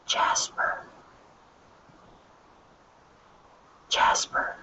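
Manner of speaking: hushed whispered name; whispering. Shown as a demonstration. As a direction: whisper right in your ear. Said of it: "whisper into the microphone".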